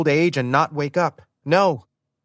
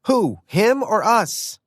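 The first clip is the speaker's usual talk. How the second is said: yelling back; 10 semitones higher, slower than usual. Acted. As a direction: shout back with exasperation. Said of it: "I yelled back".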